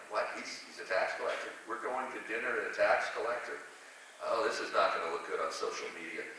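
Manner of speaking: lightly voiced grumble, pitched low; mock disciples' low-key complaint; imitated grumbling. Preacher voices followers learning of the dinner, grumbling. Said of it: "that are grumbling".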